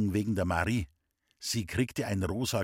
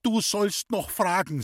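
furious mother; 8 semitones higher than usual. Acted. Mother rounds on her cheeky son, angrily shouting. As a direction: scold him in a rising fury. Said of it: "Da wurde meine Mutter so zornig".

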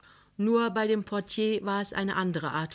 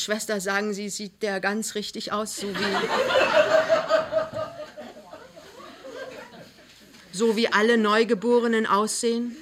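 anxious question; 3 semitones higher, 3 dB louder than usual. Acted. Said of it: "fragte ängstlich".

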